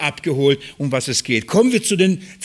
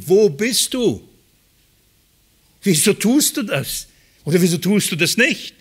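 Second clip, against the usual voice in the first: retold cry to God; 3 semitones higher than usual. Preacher reenacts crying at the sky at the forest edge, a half-volume mock shout. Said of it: "wirklich geschrien".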